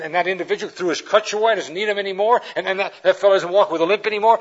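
starts hushed, then bubbles over with excitement; ecstatic. Retold or imitated. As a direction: gush about the miracles, speeding up. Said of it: "he's absolutely ecstatic".

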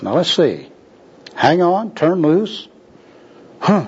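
puzzled musing, "turn loose" lifted into a question; mumbling to himself. Acted. Bum puzzles over worker's "turn loose", rising, musing to himself. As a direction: think aloud, "turn loose" rising uncertainly. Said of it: "mumbling to himself".

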